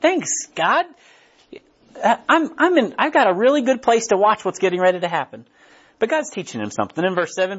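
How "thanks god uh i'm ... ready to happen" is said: pleased Jonah. Acted. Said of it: "He's like".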